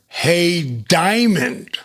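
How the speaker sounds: lightly voiced swaggering wrestler calling out; The Rock. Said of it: "he's just rolling into character".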